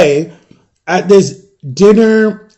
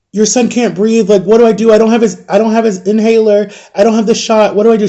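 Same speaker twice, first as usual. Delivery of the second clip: higher, urgent phone plea; panicked mother; 4 semitones higher than usual. Retold or imitated. Friend's mother calls his mom, imitated panic. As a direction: imitate a frantic mom asking for help.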